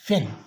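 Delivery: फेन with a short clear e; word demo. Shown as a demonstration. Teacher modelling the vowel in pen. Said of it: "sound देता है".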